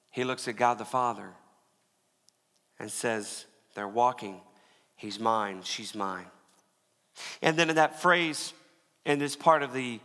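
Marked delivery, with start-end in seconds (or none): 3.7-6.3 low, gentle claim of belonging; deep, understated assurance; tender vouching. Acted. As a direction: vouch for them quietly and surely. Jesus vouching to the Father.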